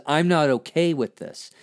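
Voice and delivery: voice of anger. Shown as a demonstration. Voicing what anger says to a partner, firm protest. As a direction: set a boundary, steady and firm. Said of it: "this voice that says".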